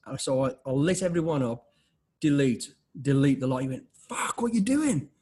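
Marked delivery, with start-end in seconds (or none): 2.2-3.6 louder, punchy deleting; defiantly deleting everything; emphatic delete. Retold or imitated. Deleting all the emails. 3.9-5.1 high, loud and slow alarmed cry; retold colleague's horrified yelp; stunned, drawn-out what you doing; shocked outburst.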